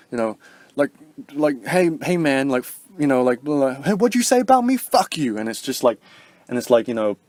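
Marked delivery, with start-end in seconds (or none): 1.7-5.4 higher, louder picking a fight; hammed-up tough guy squaring up; mock confrontation. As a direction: pitch climbing into a mock challenge.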